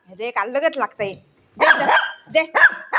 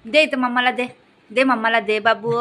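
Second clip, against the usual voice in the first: lower-pitched motherly coaxing; 4 semitones lower than usual. Real, not acted. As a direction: coax a stubborn pet to hand it over. Coaxing dog to hand it to mama.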